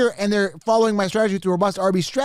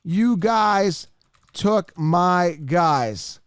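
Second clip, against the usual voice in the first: typed comment read out; much slower than usual. Real, not acted. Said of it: "I'm actually gonna go in here and comment".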